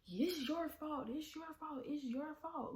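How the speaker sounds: high, slow, accusing voice for the pretend stepdad; mock accusation, pitched high and drawn out; imagined blame. Stepdad imagined blaming the driver, high slow accusing. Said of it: "he could have been like".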